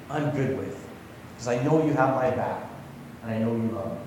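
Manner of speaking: a gentle, sincere prayer of trust. Shown as a demonstration. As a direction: settle into calm trust, letting it fade. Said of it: "It's saying".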